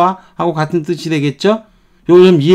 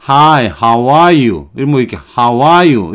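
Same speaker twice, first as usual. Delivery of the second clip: put-on politely, like an older person. Shown as a demonstration. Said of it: "이렇게 점잖게 얘기할 수도 있는데".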